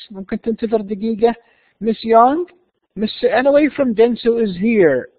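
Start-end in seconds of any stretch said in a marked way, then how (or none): 1.8-5.1 slow, higher, louder announcement; careful model reading. Shown as a demonstration. Receptionist tells Miss Young a visitor is here, slow careful reading. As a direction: announce it slowly and clearly. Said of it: "listen carefully and see how words are pronounced".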